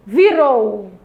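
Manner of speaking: "Virou" said out clearly, final ROU held; stress on strong syllable. Shown as a demonstration. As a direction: stretch the last syllable of "Virou". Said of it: "Fale bem alto aí". ("Virou" em voz alta, alongando o "rou")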